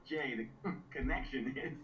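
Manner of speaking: laughing through the words. Retold or imitated. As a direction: giggle out the answer. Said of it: "I was like".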